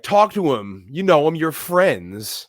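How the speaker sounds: high, loud retold urging; urgent pleading. Assistant urging the actor to talk to him, high and insistent. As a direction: push each short plea up and out.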